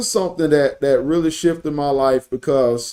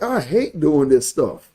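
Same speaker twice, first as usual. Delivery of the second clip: deadpan dislike. Retold or imitated. Preacher recalling own reaction to her, deadpan dislike. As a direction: quote yourself grumbling, unimpressed. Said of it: "And me, I'm like".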